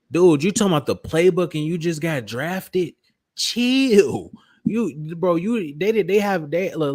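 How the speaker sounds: high, laughing disbelief; chill, he squeals in disbelief; incredulous high. Real, not acted. Laughing disbelief at drafted rookie.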